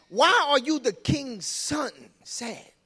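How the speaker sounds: "king's son" stretched slow, high and loud; stress on king's son. Acted. Preacher voicing Jonadab's hidden jab, high and loud. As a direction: lean hard on "king's son", slowly. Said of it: "He's saying something".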